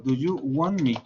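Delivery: "want" said "won", no T before "me"; silent T in want. Shown as a demonstration. Teacher answering student, "want" with silent T. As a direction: drop the T, say "won me". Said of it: "Sería algo similar a esto".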